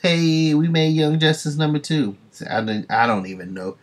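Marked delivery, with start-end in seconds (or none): 0.0-2.2 excited cheer. Real, not acted. Excited about hometown mention.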